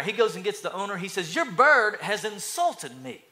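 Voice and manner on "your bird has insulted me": offended. Acted. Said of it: "The man is offended".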